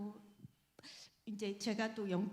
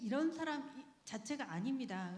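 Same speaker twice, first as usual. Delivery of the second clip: normal talking voice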